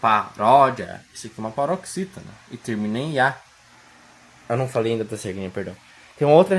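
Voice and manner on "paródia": "Paródia" stretched out slowly, syllable by syllable, the "ró" strongest; slow syllable demo. Shown as a demonstration. Teacher showing students where the stress falls, slow. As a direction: sound out "Paródia" slowly for the class. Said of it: "por que que paródia tem acento".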